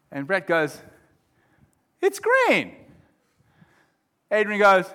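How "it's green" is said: high-pitched acted insistence; insistent retort. Friend arguing over a card colour, insistent retort. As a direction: argue back, pitch jumping up.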